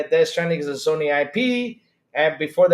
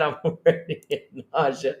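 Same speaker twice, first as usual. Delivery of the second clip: words broken by a real laugh; laughing till it hurts; 2 semitones lower than usual. Real, not acted. Streamer whose stomach hurts from laughing, laughing as he talks. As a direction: laugh through an aching stomach. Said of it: "I'm laughing so hard it hurts".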